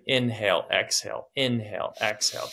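brisk breathing cues; double time cue. Shown as a demonstration. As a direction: drive the rhythm. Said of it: "go double time".

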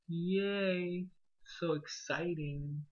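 flat fake cheer, dragged out; sarcastic. Real, not acted. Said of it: "why I sound so sarcastic".

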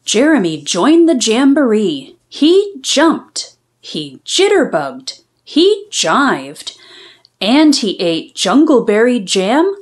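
lively storybook reading; bouncy read-aloud for young listeners; reading to children. A narrator's reading. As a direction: read it like a picture book for kids. Reads picture book aloud.

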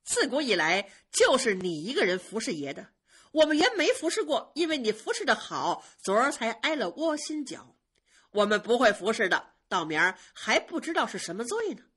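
jealous, mocking jab; sneering. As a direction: spit sarcasm with a cold scoff. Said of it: "冷笑着说".

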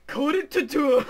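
loud laughing yell, spraying spit; spitting. Real, not acted. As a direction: shout it so hard you spit. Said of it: "Just spit everywhere".

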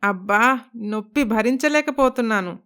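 understated groan from the sore leg; lightly acted moan after a fall; pained moaning. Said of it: "అని మూలుగుతూ ఉంటుంది".

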